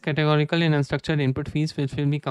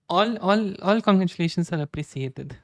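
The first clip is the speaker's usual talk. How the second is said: playful, higher-pitched mock Middle Eastern accent; mock foreign accent; 4 semitones higher than usual. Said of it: "which country has this, um, accent".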